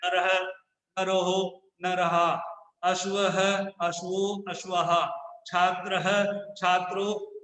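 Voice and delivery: नरः and अश्वः and छात्रः each end with a clear breathy ह after the vowel; visarga as soft h. Shown as a demonstration. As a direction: end every visarga word with a soft echoed ह, like नरः said naraha. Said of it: "ह की ध्वनि के साथ उच्चारण करते हैं". (विसर्ग वाले शब्द के अंत में हल्की ह की ध्वनि, जैसे नरः को नरह बोलें)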